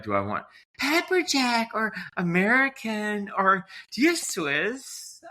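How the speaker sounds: put-on lifted, slow, airy girly register; high feminine voice. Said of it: "revert to this voice".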